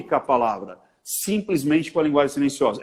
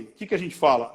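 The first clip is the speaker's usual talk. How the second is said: ordinary talk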